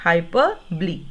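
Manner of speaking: hyperbole said slowly as hy-PER-bo-lee for the class to repeat; hyperbole in four syllables, ending in lee; model pronunciation. Shown as a demonstration. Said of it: "Please repeat". (दोहराने के लिए hyperbole, हाइ-पर-बो-ली)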